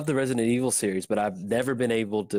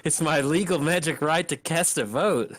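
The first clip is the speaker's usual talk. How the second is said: higher, lightly hammed-up indignation; mock courtroom protest; 5 semitones higher than usual. Player joking about a right to vote, mock courtroom protest. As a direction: protest like a wronged voter, in jest.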